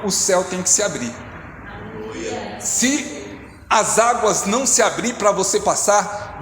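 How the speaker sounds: rousing sermon delivery, building and falling; preaching. Acted. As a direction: preach it out to the faithful. Preaching to the congregation.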